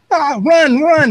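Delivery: high-pitched comic alarm cry; hammed-up, high panicked yelp; mock panic. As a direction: act out a brain screaming to flee. Imagined brain firing off in panic.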